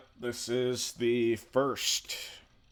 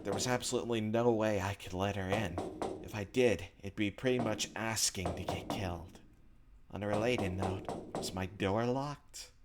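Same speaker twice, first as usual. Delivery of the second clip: measured first-person narration, softer than the chat; story narration; 5 dB quieter than usual. A narrator's reading. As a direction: read the inner monologue like a story. Reads visual novel narration aloud.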